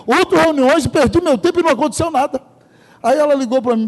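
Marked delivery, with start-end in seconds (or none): 0.1-2.4 raised, exasperated complaint; mild mock outrage, pitched up; retold indignation. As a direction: vent the frustration of wasted meetings. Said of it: "E eu fiquei indignado, numa raiva".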